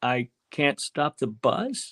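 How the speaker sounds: very slow, exaggerated, drawn-out delivery.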